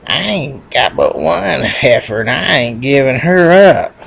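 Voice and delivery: slow, drawn-out defiance; lightly voiced stubborn little bull; defiant little bull. Little bull refusing to give up his heifer, defiant.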